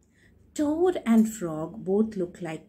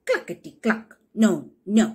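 hen clucking; 6 dB louder than usual. Acted. Hen voiced.

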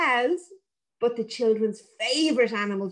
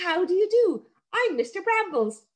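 higher, polite little sprite; Mister Brambles; 8 semitones higher than usual. Acted. Hedge sprite introducing himself to the children. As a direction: greet them with grand politeness.

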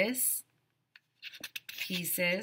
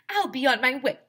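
lightly voiced teacher; 8 semitones higher, 7 dB louder than usual. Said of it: "she said".

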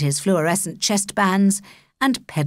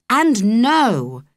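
firm denial; 4 semitones higher, 5 dB louder than usual. Acted. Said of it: "she said".

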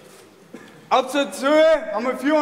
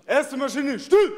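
barked drill commands. Real, not acted. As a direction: snap the squad to attention. Formation command before the jump.

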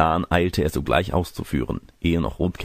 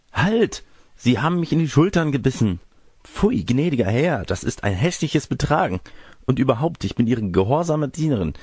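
higher, affronted protest; indignant girl; 7 semitones higher than usual. Acted. Girl rebuking the gentleman who bit her, indignant. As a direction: scold like an offended young girl.

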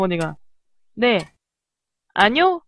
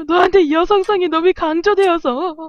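higher-pitched fake weeping; mock crying; 4 semitones higher than usual. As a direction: whimper like an overdramatic mother. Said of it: "이렇게 울 것 같아".

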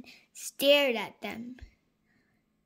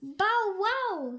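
barking dog; 8 semitones higher than usual. Acted.

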